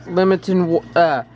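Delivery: stumbling around a cough drop; words slurred by a lozenge in mouth; sucking a throat lozenge. Real, not acted. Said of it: "hard to talk with the cough drop in my mouth".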